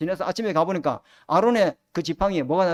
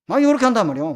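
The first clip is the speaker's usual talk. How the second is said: emphatic preaching; 3 semitones higher, 8 dB louder, faster than usual. Real, not acted. Preacher declaring the devil's work.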